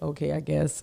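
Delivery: normal talking voice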